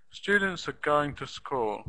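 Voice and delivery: STU, GO and school stressed, "are" and "to" weak; stress on content syllables. Shown as a demonstration. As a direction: Students are going to school with strong first syllables in Students and going. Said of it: "the stress is on the first syllable".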